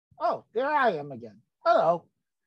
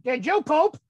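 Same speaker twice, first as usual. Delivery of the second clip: a mild mock yell of Did you poop?, poop punched; half-hearted retold scream; mock nurse yell; 4 semitones higher, 3 dB louder than usual. Nurse hollers at boy, mild mock yell. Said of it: "screamed it".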